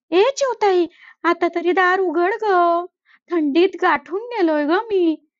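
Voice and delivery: plead, cold and tired; pleading crow. Acted. Frozen crow begs the sparrow to let him in, lightly pleading.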